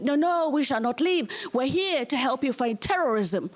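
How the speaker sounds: light mock French accent; insist, with a touch of comic French. French ambassador offering help against terrorism, light French accent. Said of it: "That's a French accent, by the way".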